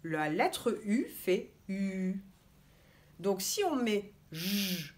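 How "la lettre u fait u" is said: "U" said slowly with rounded lips; sound demo. Shown as a demonstration. Teacher models the U sound slowly for children. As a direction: push the lips forward and hold "U". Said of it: "tu avances ta bouche pour faire U".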